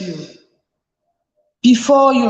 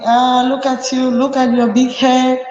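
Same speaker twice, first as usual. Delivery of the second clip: a scolding parent, pitched higher; nagging a child about school fees, mildly raised; mock shouting parent; 3 semitones higher than usual. Parent scolding child over school, lightly mock angry. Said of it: "Not just shouting".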